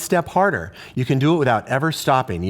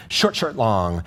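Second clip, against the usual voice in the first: "Short, short" quick, "long" stretched and dropping low; two quick beats on "Short, short", then hold "long"; short-short-long rhythm; 5 semitones lower than usual. Shown as a demonstration. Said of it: "'cause it's a long note".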